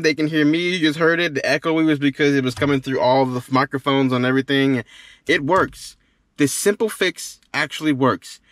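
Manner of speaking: ordinary talk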